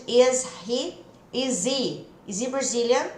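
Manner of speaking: "is he" run together as "izi", no H; linked is he. Shown as a demonstration. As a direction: drop the H of "is he" and link the Z. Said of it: "ao invés de". ("is he" grudado: "izi", sem o H)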